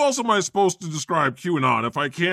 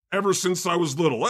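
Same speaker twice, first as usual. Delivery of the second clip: quick, earnest recital of the line; dramatic reading; faster than usual. Acted. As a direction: rush through it like a stage poem. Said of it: "a dramatic reading of a song".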